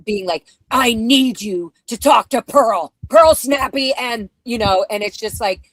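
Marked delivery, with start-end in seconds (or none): 0.7-3.9 louder retold phone demand; urgent, insistent mock yell. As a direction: imitate him yelling down the phone. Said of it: "was yelling at me on the phone".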